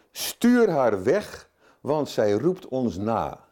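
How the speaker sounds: slow, drawn-out dismissive demand; impatient brush-off. Retold or imitated. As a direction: send her away with irritation. Disciples' impatient demand voiced.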